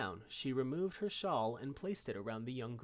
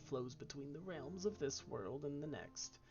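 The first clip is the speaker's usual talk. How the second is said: Southern grandma; 4 dB quieter than usual. Acted. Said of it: "why her grandma's Southern".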